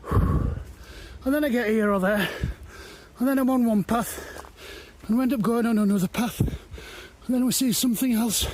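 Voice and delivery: puffing between words after the climb; out of breath. Real, not acted. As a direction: talk while still winded. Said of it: "just catching my breath".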